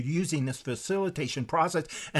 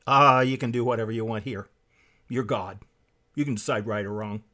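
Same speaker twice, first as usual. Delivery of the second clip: lower, coaxing serpent voice; tempting serpent; 6 semitones lower than usual. Retold or imitated. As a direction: coax like the serpent in the garden. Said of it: "the serpent's way of thinking".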